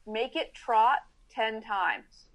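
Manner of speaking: slow, deliberate coaching command; slow instruction. Shown as a demonstration. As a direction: spell out the order slowly, word by word. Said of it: "and I go like".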